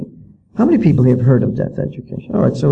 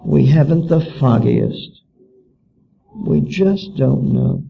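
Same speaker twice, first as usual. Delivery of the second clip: slow, mildly mocking shrug of a reply; mock helpless teachers; slower than usual. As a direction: draw it out like clueless officials. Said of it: "shake their heads and wring".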